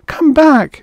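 high, loud urgent shout; calling out. A narrator's reading. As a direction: call after him as he nears the edge. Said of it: "she called to him".

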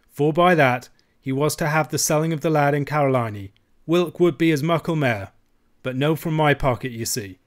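put-on broad Scots, defensive old uncle; uncle confessing.

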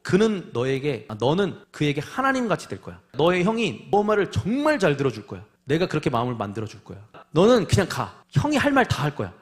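acted exasperated divine scolding; heated, emphatic telling-off, building at the end; angry God. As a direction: order him off, losing patience. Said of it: "이렇게 하나님이 화를 내십니다".

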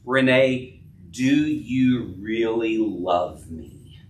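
husband asking again, slow and searching; serious, searching question. Acted. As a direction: ask it slowly so she has to think. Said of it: "That's what Jesus was doing".

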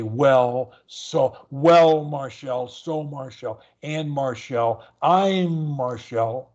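WELL, SO, AND, I'M drawn out as slow run-ups into "Marshall"; lead-in before Marshall. Shown as a demonstration. Coach showing a stutterer words to put before Marshall, drawn-out lead-ins. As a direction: stretch the lead word, glide into "Marshall". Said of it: "You could say".

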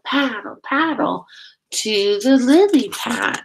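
sing-song storybook reading, steady beat; reading to children. Acted. Teacher reading a nature book to her class, sing-song. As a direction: lead the chant for little listeners. Reads picture book aloud.

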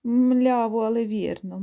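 lightly voiced oxen, stress on але; lowing oxen. Plodding oxen lowing back at the geese, mild drawl. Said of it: "задирають голови і мукають".

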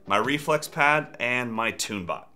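ordinary talk

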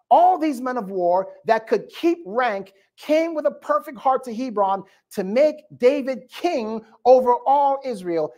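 sermon read of scripture; preaching. Acted. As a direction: preach it to the congregation.

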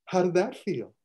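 high, eager questioning; eager coach. Retold or imitated. Custodian asking the girl after her punch, eager and high. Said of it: "and goes".

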